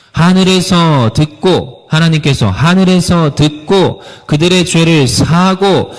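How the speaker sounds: 하늘에서 듣고 drawn out slowly and high; a preacher driving the promise home, slow and emphatic; slow emphatic proclaiming. Real, not acted. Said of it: "preacher stressing the promise".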